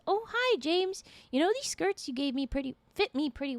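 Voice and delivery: flirty Lizzie. Acted. Lizzie voiced flirting with Park.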